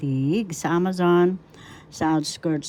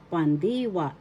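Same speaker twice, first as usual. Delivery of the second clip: "Pandiwa" with stress on "di"; pan-DI-wa, said as a pronunciation example; stress on second syllable. Shown as a demonstration. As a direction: model "Pandiwa", leaning on the middle syllable di. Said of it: "That's how you pronounce".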